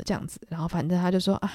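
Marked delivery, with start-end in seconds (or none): 1.5-1.5 hammed-up lament. Daisy crying out to the sky, a hammed-up tragic lament. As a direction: overplay the world-weary sigh. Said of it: "好像仰天长啸".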